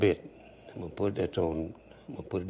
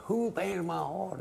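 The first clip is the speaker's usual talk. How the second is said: high, slow yelled question; hollered question; 11 semitones higher, slower than usual. Retold or imitated. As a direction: holler it across the dance hall. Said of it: "and he hollered".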